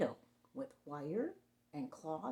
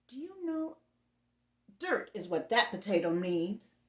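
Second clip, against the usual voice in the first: monster voice; 3 dB louder than usual. Acted.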